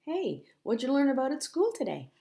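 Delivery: Mommy asking. Acted. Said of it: "faster than Mommy asking".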